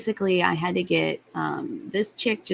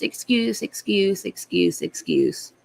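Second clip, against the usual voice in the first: mocking repeated excuse; 2 semitones higher, slower than usual. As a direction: scoff at the excuses, letting each trail off. Mocking the supervisor's endless excuses.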